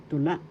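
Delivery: tula with the accent on LA; teacher's model of tula, stressed LA; stress on second syllable. Shown as a demonstration. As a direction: land on la at the end of tula. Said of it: "The accent is in the second syllable".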